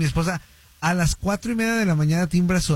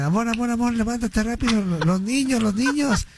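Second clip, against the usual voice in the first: panicked wake-up call; 5 semitones higher than usual. Retold or imitated. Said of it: "Asustadísimo. Y despertando a todo el mundo".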